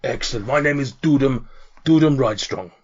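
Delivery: lightly voiced cheery half-orc in broken Common; a hint of a jolly orc bull-handler. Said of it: "a cheery, another half orc".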